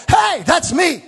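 Jesus spotting himself in Isaiah, thrilled; excited discovery. Retold or imitated. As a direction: shout it like you just found yourself.

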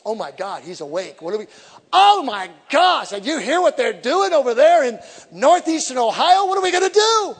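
high, loud frantic devil voice; hammed-up scared devil; panicky devil. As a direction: squeal it like a panicked demon. Devil panicking in preacher's story.

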